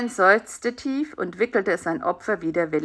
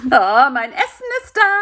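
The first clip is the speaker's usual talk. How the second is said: mildly excited announcement; a pleased exclamation, lifting at the end; delighted; 6 semitones higher, 5 dB louder than usual. A narrator's reading. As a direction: greet the food with mild glee. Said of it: "freute sich Karl-Heinz".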